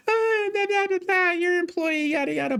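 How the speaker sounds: very high, whiny parody of a complaining customer; mocking the customer. Mocking how the customer complained to the manager, high whiny parody. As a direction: squeak out her complaint like a nagging caricature.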